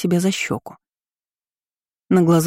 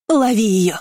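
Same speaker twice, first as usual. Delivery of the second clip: higher-pitched chasing call; shouts from behind; 4 semitones higher than usual. A narrator's reading. Family chasing the fleeing girl, calling out. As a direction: call out after a runaway. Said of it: "слышалось за спиной".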